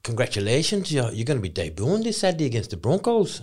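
lightly imitated English coach; hint of an English accent, addressing a lad; mock English coach's accent. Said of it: "in a English accent".

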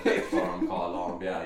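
low put-on Colombian accent on "Colombia"; Colombian pronunciation. Shown as a demonstration. Telling a mate to say it like that, Colombian accent. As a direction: say "Colombia" deep, mock-Colombian. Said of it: "You have to say it like that".

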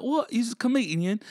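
high, mock-astonished British voice; British accent. British brother learning he's a comedian, astonished British accent. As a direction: imitate a surprised Brit, pitch way up. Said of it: "British brother".

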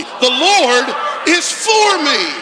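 loud, slow shouted declaration; bold declaration. Shown as a demonstration. Pastor leading the congregation, shouting it boldly. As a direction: declare it from the belly. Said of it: "Say it again like you mean it. Boldly".

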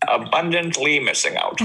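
a hint of a gleeful Grinch, laughing. Joking about missing the group's binge, Grinch voice. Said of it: "Was that your Grinch voice?".

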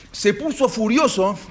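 high, loud, slow stress on furioso; 1 dramatic emphasis. A narrator's reading. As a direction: lean into the fury as you tell it. Narrador subraya la furia. (narrando con furia contenida, alto y lento)

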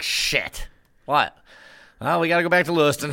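fast, rising flustered discovery; high, rushed dismay; panicked realization. Retold or imitated. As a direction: realize you forgot the cord. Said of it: "You're just like".

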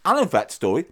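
talking through a biscuit; words round a bite of food; mouth full. Real, not acted. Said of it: "Sorry, I'm eating a biscuit".

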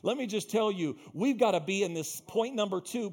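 emphatic, driving sermon delivery; preaching. Real, not acted. Preacher urging the church on point two, emphatic preaching. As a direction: press each point on the congregation.

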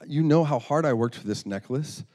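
acted indignant protest, punched in places; angry. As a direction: play an offended little girl digging in. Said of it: "she became angry and said".

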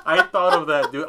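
words squeezed out through big laughs; can barely talk for laughing; laughing hard. Real, not acted. Laughing hard at awkward call.

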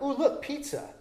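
lightly eager little exclamation; acted sudden delight. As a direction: act out happily spotting food. Acts out spotting pizza.

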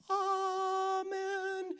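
Amen with a long high ah-men. Shown as a demonstration. Pastor mocking ah-men sayers: AH-men drawn out. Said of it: "If you say amen".

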